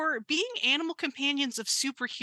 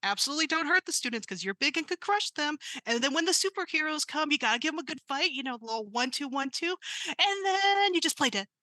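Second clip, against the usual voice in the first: put-on giddy party girl robot; 5 semitones higher than usual.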